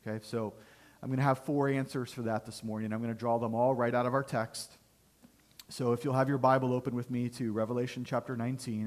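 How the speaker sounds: hoarse, weak sick voice. Real, not acted. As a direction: speak through a sick throat. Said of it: "forgive my voice".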